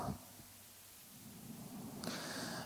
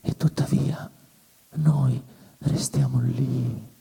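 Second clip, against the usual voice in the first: hushed despair; 3 semitones lower, slower than usual. Acted. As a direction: let hope die in a slow whisper. (sussurro lento e disperato)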